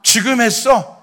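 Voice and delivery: loud, high teasing question; amused mock surprise. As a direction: tease a junior as if he's late to it. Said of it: "다 저희 선배 목사님들인데". (선배가 놀리듯 크고 높게 묻기)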